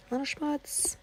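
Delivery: playful cutesy repeat of "schmutz"; cutesy high voice. Pretend. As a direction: say "A little schmutz" high and cute. Repeats word in cute voice.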